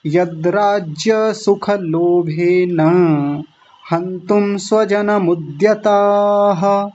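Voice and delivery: slow, measured Sanskrit recitation; verse recitation. Shown as a demonstration. Teacher reciting the Gita verse to students, slow and measured. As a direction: chant each word of the shloka deliberately.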